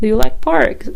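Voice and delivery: mock beating around the bush; roundabout question. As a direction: imitate a coy ask for validation. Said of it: "beating around the bush".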